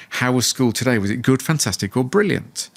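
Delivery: put-on bright, eager asking of the kids; enthusiastic question. Shown as a demonstration. Dad asking his little kids about school, full of enthusiasm. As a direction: sell it like the best dad in the world. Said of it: "I said it with real enthu".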